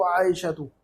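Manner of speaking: आयशतु ending on an open short "u"; without tanween. Shown as a demonstration. Teacher giving another woman's name as example, आयशतु without tanween. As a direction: say आयशतु with no final n. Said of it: "औरतों के नामों पर हमने तनवीन नहीं पढ़ी थी".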